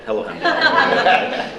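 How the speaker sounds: high, drawn-out mock English greeting; bad English accent. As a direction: sing out an exaggerated English receptionist's hello. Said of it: "do a bad English accent".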